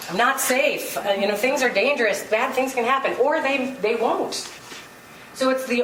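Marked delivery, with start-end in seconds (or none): 0.1-2.7 light laughing "I'm not safe", not meant; amused mock worry; laughing mock fear. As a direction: laugh through the fear as a joke. Mocking her own fearful thoughts.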